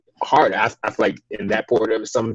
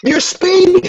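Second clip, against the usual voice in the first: much higher, louder, slow cop voice; mock cop voice; 5 dB louder than usual. Mimicking a cop answering the driver, high and slow. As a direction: play the cop stating the obvious.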